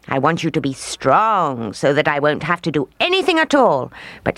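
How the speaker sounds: lightly voiced gleeful old witch; gloating witch. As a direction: relish every chore you assign.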